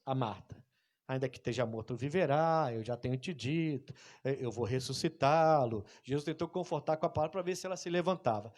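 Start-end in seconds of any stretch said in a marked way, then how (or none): 1.1-5.8 comforting. Retold or imitated. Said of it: "Jesus tentou confortá-la com palavras".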